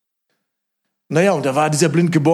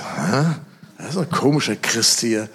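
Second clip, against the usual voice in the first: whispered thought; 2 semitones lower than usual. Retold or imitated. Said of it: "Und ich dachte".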